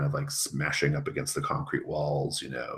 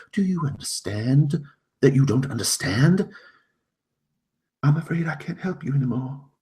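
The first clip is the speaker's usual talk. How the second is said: much higher and louder, urgent warning; a guardian giving up in alarm; familiar protector; 7 semitones higher, 7 dB louder than usual. Acted. A familiar voice warns Jacqueline it can't help, high and loud. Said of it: "a voice you recognize very much".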